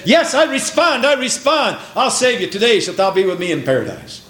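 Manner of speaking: a high, tender voice of Jesus promising; lightly voiced Jesus, kind and sure; Jesus' voice. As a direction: voice Jesus lifting up the thief. Jesus voiced answering the thief.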